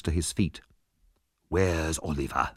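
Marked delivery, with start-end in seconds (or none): 1.5-2.5 furious. A narrator's reading. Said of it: "he asked them furiously".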